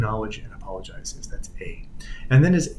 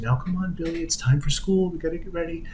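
lightly voiced mom, a little higher; imitated mother; 5 semitones higher, 3 dB quieter than usual. Mother urging her son off to school, lightly imitated coaxing. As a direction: coax a small child in a higher, softening voice. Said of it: "the mother's saying".

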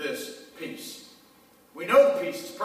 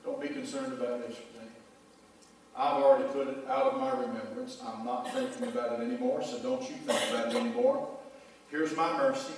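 a hint of tender fatherly comfort; gently voiced God; 3 semitones lower than usual. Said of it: "God looks at you and he says".

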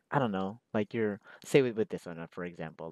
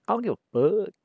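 comedian catchphrase, higher; 9 semitones higher, 7 dB louder, much faster than usual. Retold or imitated. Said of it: "he's like".

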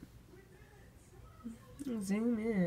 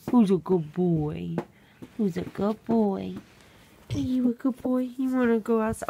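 doting; 6 dB louder than usual. Real, not acted. Praising the dog.

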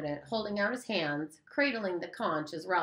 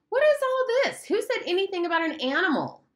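sharp, much higher and louder, cutting in fast; testy interruption; 6 dB louder than usual. Acted. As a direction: snap back irritated at Jack. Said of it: "Ralph interrupted him testily".

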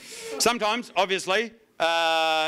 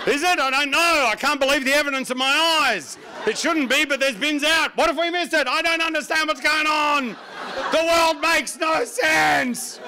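put-on bewildered old coot; 8 semitones higher than usual. Old neighbours baffled by bins out. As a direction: rant in mock disbelief.

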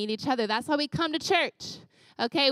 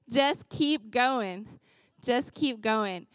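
slow encouragement; much slower than usual. Real, not acted. Closing encouragement repeated slowly.

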